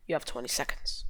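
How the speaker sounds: hushed whisper, secretive; low playful whisper. Acted. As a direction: breathe it like a quiz host counting down. Timing a puzzle for viewers.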